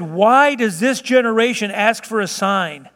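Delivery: slow, weary question with mild exasperation; groaned exasperation. Acted. Preacher quoting Jesus to a sign-seeking generation, mildly exasperated. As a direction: draw it out, inwardly groaning. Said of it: "He just groaned within himself".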